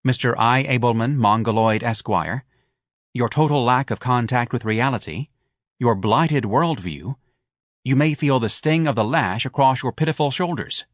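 grandly declaimed insulting letter; pompous letter reading. A narrator's reading. Threatening letter read aloud to Abelman, pompous. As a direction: read it out with haughty, measured menace.

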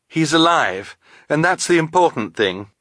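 high, emphatic reassurance; consoling but urgent; earnest insistence. A narrator's reading. Klaus insists to his crying sister.

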